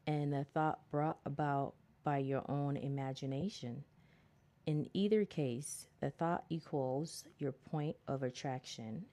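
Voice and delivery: measured, deliberate book reading; reading aloud. Acted. Reading self-help advice to listeners, measured read-aloud. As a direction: read it out in careful phrases.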